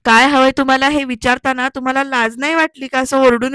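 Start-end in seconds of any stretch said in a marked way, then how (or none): 0.1-0.9 louder angry mock yell; retold shout. Councillor turns her words on her, a louder mock yell. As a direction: throw the question back, louder. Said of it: "Talekar एकदम ओरडून विचारतात".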